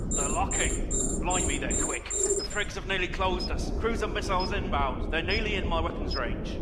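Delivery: loud, alarmed battle reports; urgent combat shout. Acted. Crewman shouting to the captain under missile fire. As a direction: call it out over the chaos.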